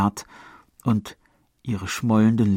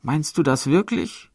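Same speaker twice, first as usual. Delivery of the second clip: put-on moved girl; 8 semitones higher, 5 dB louder than usual. A narrator's reading. Matron voicing beloved girl.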